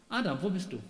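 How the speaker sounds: calm, steady, loving call; sovereign, kind call; calm and clear. Pretend. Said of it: "Diese Ruhe, diese Klarheit".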